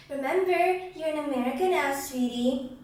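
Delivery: mock a sugary, patronizing adult; put-on condescending sweetness; sickeningly sweet. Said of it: "Sickeningly sweet, it told me".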